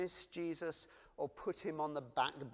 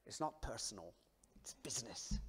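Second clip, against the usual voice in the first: mob boss line; 4 dB quieter than usual. Retold or imitated. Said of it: "I nearly tried the accent".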